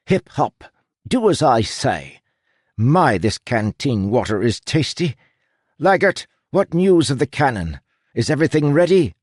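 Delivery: aristocratic captain, high and imperious; high, haughty aristocratic accent; Captain Crow. A narrator's reading. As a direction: command in a mock-aristocratic accent. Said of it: "good approximation of her aristocratic accent".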